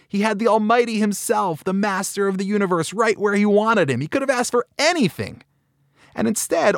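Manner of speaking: high, tearful disbelief, mildly acted; a touch of weeping wonder at the waste; retold crying rabbi. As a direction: voice rising in pained amazement. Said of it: "And he starts to cry".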